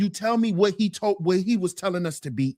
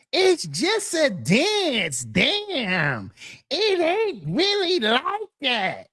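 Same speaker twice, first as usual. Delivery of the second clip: slow, drawn-out defensive whine; mocking fan; 4 semitones higher, much slower than usual. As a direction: stretch it out like a dismissive fan. Mimicking fan's defense.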